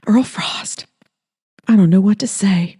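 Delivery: breathless whisper of his name; a whispered, high, flustered reply; soft, flustered. Acted. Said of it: "Her voice was soft".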